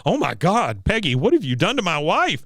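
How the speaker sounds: lightly voiced dismayed husband; mild mock alarm; Hank. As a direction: ask it aghast, pitch rising. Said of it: "Hank says".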